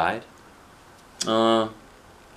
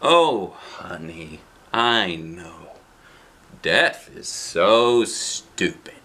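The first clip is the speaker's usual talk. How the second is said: grandma; much slower than usual. Acted. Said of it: "And she says".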